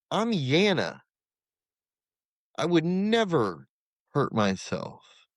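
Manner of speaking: high, drawn-out pleading protest; slow, high insistence. Retold or imitated. Protesting he'd never self-harm.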